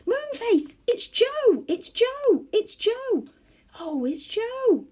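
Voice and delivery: high, loud calls to Moonface; yelling excitedly. A narrator's reading. Beth and Franny yelling out when they hear Joe. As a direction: shout it through the door, thrilled. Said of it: "yelled out loudly".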